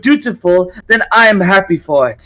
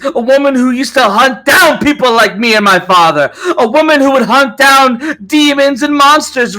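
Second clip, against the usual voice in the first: much higher and louder, raging; angry yelling; 9 semitones higher, 3 dB louder than usual. Acted. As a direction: spit the words at her enemy. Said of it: "She yells in anger".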